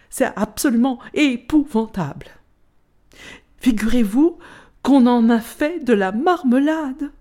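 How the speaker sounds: gossiping apple, growing indignant; outraged gossip. Acted. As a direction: tell it like shocking neighborhood gossip. Golden apple recounts friend's fate.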